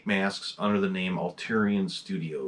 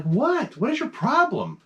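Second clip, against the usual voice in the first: tag; 12 semitones higher than usual. Retold or imitated. Answering the meowing cat.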